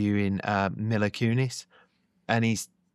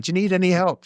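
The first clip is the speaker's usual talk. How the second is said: helpful husband; 9 semitones higher, 4 dB louder, faster than usual. Retold or imitated. Husband calling from background.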